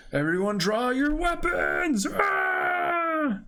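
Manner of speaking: rallying yell to arms; battle shout. Acted. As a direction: shout the order to the crew. Reading battle order aloud.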